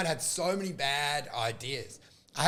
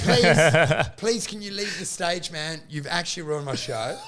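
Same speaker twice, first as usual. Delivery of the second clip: lower, earnest retold plea; sincere; 3 semitones lower than usual. Comic begging pieman to leave, sincere low plea. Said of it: "like, really sincerely".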